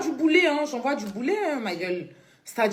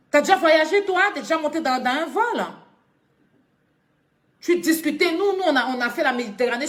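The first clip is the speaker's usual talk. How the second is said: higher, louder mocking challenge; taunting scold; 4 semitones higher, 3 dB louder than usual. Real, not acted. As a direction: rub her nose in it. Taunting the girl.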